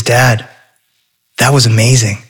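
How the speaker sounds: hushed awe. Acted. Awed boy settles in father's arms.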